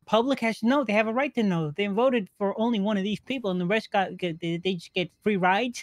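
loud impassioned rant; ranting loudly. Acted. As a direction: shout it like a crusading reporter. In-character political rant, shouting.

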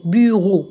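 بيرو drawn out slowly for learners; pronunciation demo. Shown as a demonstration. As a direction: model بيرو slowly, each syllable clear. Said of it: "يبقى هننطقها تاني". (بيرو بنطق بطيء وواضح للتعليم)

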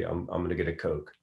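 Philly accent with flattened A's; quick Philly accent demo, flat A's. Shown as a demonstration. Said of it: "you flatten your A's and you say".

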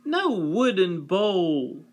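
high, slow whine; whining child. Acted. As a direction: pout out the complaint. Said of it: "whined S-, Eve".

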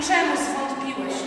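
slow, measured question; Jesus questioning Peter. Acted. Leader voicing Jesus to rescued Peter, slow question. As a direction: draw the question out gently. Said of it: "Jezus natychmiast wyciąga Piotra i mówi".

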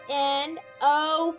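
usual speaking voice

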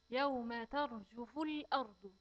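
slow, measured tajweed chant; measured recitation of the verse; slow Quran recitation. Shown as a demonstration. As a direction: recite it carefully for the children.

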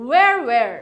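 "where" said as wer with no h sound, repeated; silent h. Shown as a demonstration. Teacher showing students how "where" sounds, no h. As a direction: say "where" twice, no breath of h at the start. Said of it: "এখানে হা উচ্চারণটা কিন্তু হচ্ছে না".

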